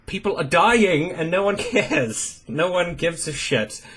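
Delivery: quoting protesters. Retold or imitated. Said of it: "they're saying".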